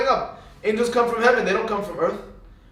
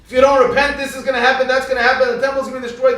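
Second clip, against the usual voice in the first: loud, raised warning cry; a prophet shouting a warning to repent; hardcore prophet warning; 7 semitones higher, 8 dB louder, faster than usual. Retold or imitated. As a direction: thunder it like a doom prophet. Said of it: "They were hardcore".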